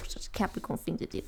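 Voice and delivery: breathy laugh into the words; half-voiced chuckling aside. Real, not acted. Laughing at Capricorn habits.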